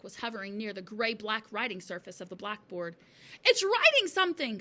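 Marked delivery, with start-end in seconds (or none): 3.4-4.6 high, excited scream. A narrator's reading. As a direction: shout the amazing news to the room. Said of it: "screamed Nigel".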